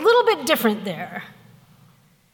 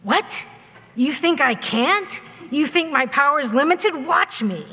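mildly affronted, not raised; indignant. Retold or imitated. The Lord answering doubting Moses, mildly indignant. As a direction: answer a challenge with understated indignation. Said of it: "The Lord's indignant".

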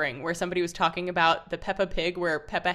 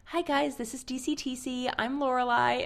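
performance voice; 4 semitones higher, 3 dB quieter than usual. Retold or imitated. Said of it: "Yeah, performance voice".

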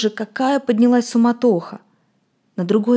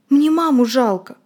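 slow, tearful and a little higher; quiet crying; 4 semitones higher than usual. Acted. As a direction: say it through quiet tears. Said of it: "тихо плакал Володя".

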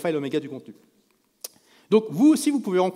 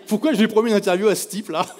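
Tim qui râle, plus fort, un peu plus aigu et pressé à la fin; agacement imité; 3 semitones higher, 6 dB louder than usual. Retold or imitated. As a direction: soupire puis râle contre lui-même, de plus en plus vite. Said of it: "en mode". (l'expert regrette sa promesse, râle agacé)

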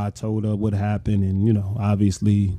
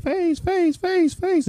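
calling out nickname; much slower than usual. Retold or imitated. Friends calling out his nickname.

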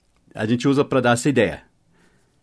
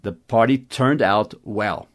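slow model sentence; 2 semitones lower, slower than usual. Shown as a demonstration. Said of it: "Mas se eu falar assim".

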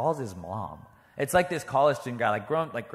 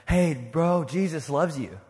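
mild retold call-out, louder at first; imitated yell; 5 semitones higher, 4 dB louder, slower than usual. Friends yelling to a guy from their van, imitated half-yell. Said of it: "he yelled to this guy".

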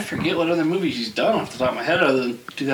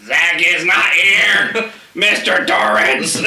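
creepy slow movie voice; 4 dB louder, slower than usual. Pretend. Creepy Shining-style line.

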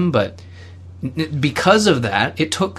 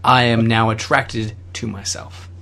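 slow, measured British-accent imitation; Benedict Cumberbatch. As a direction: put on a British accent, taking your time. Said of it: "talking like Benedict Cumberbatch".

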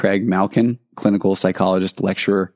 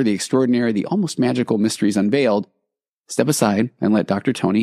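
carnival barker. Pretend. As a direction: step right up, sell it like a fairground barker. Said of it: "I wrote as if it were a carnival barker".

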